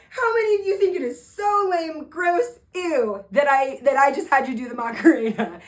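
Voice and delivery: loud, hammed-up distaste; mock disgust. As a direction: goad a crowd into saying yuck. Re-enacts goading kids into disgust.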